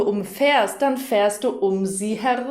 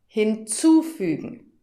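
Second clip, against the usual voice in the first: Hinzufügen with the zu syllable stressed; stress shown on zu; 2 semitones higher than usual. Shown as a demonstration. Teacher asking the learner to listen again, zu stressed. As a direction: lean on the zu in Hinzufügen. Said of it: "Hör noch mal".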